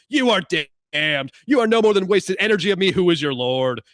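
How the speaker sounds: loud, hammed-up threatening deity; voice of God. God threatening Bob with damnation, hammed-up booming voice. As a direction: play a pompous god trying to scare him. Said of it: "And then God says".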